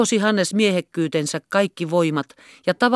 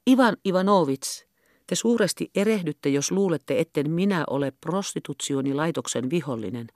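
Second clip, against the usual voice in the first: softer, mild and careful; soft conciliatory reply, fading quieter; gentle, cautious tone; 4 dB quieter than usual. Acted. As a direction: soothe a shouting man gently. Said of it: "mahdollisimman sävyisellä ja varovaisella nuotilla".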